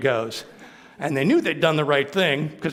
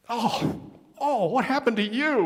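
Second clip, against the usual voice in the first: shocked guards; 9 semitones higher than usual. Acted.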